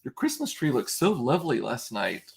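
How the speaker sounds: mock passive-aggressive neighbor; lightly voiced passive-aggressive sweetness. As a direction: imitate a neighbor's jokey, pointed compliment. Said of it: "do it in a passive aggressive way".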